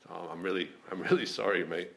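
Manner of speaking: put-on light Glasgow accent apology. Apologising to training partner in a light Glasgow accent. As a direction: say sorry in a mild Glasgow accent. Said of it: "That was my Glasgow accent".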